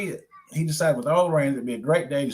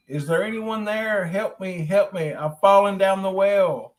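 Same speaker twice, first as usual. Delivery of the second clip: crying for help; 7 semitones higher, 4 dB louder than usual. Acted. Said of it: "cry for help".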